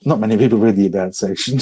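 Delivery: rushed, blurred words; fast mumble. Real, not acted. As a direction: rattle it off in a mumble. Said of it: "I didn't understand a damn thing".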